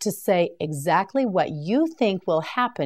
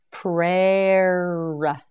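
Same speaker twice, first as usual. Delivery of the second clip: drawn out slowly, each sound held; Prayer. said long and slow for repeating; slow stretched model word. Shown as a demonstration. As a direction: stretch Prayer. so learners hear every sound. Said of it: "You try it".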